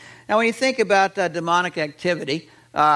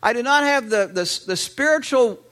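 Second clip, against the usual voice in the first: desperate father; 5 semitones higher than usual. Retold or imitated. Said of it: "as if the father is saying".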